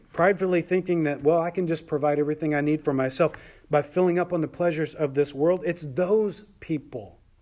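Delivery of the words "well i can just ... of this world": ordinary delivery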